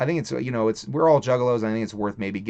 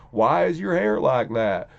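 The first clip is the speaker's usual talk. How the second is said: slow, mimicked Vermont accent; mock Vermont schoolkid accent, taking its time; imitated Vermont accent; slower than usual. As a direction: draw the question out in a put-on Vermont accent. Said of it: "with that accent".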